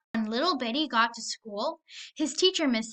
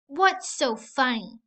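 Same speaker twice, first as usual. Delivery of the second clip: uneasy bully; 3 dB louder, slower than usual. Acted. Bully unsettled.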